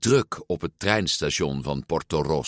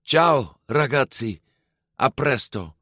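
higher-pitched called farewell; calling out; 7 semitones higher than usual. A narrator's reading. Giulia boards the train, calling goodbye to her friends. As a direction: call goodbye across a distance. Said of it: "riep ze".

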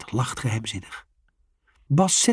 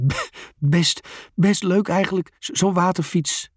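chuckling, out of breath; 6 semitones higher than usual. A narrator's reading. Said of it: "grinnikt Bas".

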